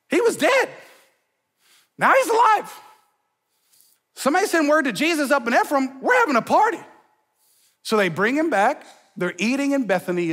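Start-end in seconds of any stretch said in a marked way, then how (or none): 0.1-6.8 high, fast giddy announcement; excited party planning. Retold or imitated. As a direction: squeal about the miracle. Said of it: "were like".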